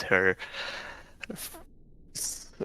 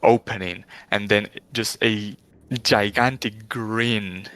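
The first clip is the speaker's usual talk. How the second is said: game master narration. Acted. Game master describes a vision.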